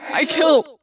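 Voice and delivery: anguished cry. A narrator's reading. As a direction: Tobias confesses to Rachel, anguished cry. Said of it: "I cried".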